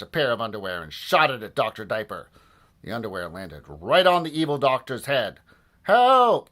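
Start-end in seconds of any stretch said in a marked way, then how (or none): 5.8-6.5 high, loud yelp; cry for help. A narrator's reading. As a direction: shout out in panic. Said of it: "cried Doctor Diaper".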